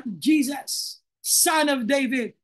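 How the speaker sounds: slow, understated imitation of a cry; calling out to Jesus. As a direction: call out slowly, a mild retold shout. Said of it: "Nagsisigaw siya".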